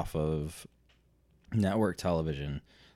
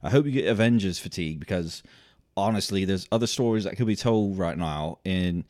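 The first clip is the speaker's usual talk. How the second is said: put-on Cockney, growing louder; Cockney accent; 3 semitones higher, 5 dB louder than usual. Host recounting what James Cameron told him, Cockney accent. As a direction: tell it in a mock Cockney accent, building up. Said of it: "you can do your Cockney accent".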